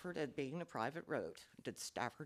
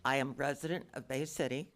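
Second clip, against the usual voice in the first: louder, close to the microphone; leaning into the mic; 3 dB louder than usual. Real, not acted. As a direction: lean in and speak up. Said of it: "lean into the microphone".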